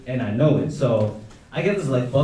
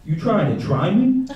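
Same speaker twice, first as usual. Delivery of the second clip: put-on tough kid challenge; 4 semitones higher, slower than usual. Coworker kid quoted in a story.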